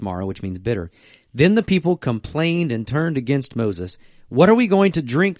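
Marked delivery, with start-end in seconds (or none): 4.3-5.4 higher, louder demand. A narrator's reading. Thirsty Israelites demanding water from Moses, loud and high. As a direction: throw the question at Moses. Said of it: "they demanded".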